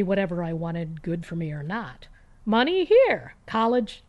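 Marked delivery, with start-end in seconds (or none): 2.4-4.0 high, loud hammed-up generous father; imitating a dad handing over cash; mock doting dad. Mocking her father who gave her whatever she wanted, hammed-up indulgent voice.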